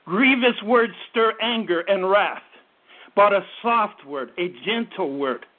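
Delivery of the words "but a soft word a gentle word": gentle word. Shown as a demonstration. Preacher urging parents, low slow gentle hush. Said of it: "A gentle voice turns away wrath".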